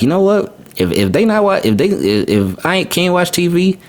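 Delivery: put-on high playful kid voice; mock kid whine; imitating his son. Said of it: "So he was like".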